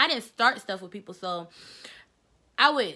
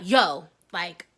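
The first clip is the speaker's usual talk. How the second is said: New York yo; 2 semitones lower, 5 dB louder than usual. Retold or imitated. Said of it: "I was like".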